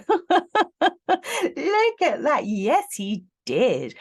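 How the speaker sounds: high, drawn-out laughing exclamation; loud, gleeful squeal of laughter. Real, not acted. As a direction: crow it through a laugh, stretching the words. Laughing, triumphant repeat of her reading.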